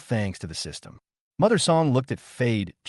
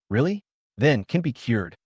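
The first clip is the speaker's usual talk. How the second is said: anxious; 2 semitones higher than usual. Acted. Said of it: "asked anxiously".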